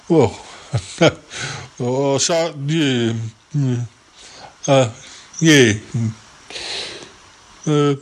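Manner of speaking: lightly voiced rambling yeti uncle; a hint of a dithering old uncle; Yeti Uncle John. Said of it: "It's me, Yeti Uncle John".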